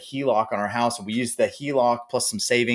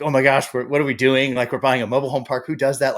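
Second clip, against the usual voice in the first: retold panic; 3 semitones higher, 4 dB louder than usual. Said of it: "I was like".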